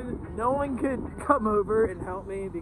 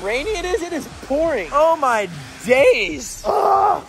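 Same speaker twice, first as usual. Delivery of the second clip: surprised; 3 semitones higher than usual. Real, not acted. Sees heavy rain.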